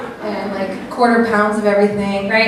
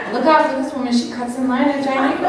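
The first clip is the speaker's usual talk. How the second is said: passive aggressive; faster than usual. Shown as a demonstration. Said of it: "real passive aggressive".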